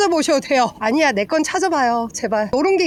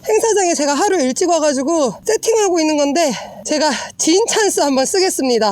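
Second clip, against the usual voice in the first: ordinary talk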